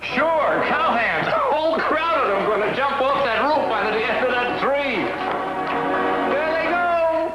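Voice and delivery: breathless eyewitness thrill; excited. Acted. Excited report of the stunt.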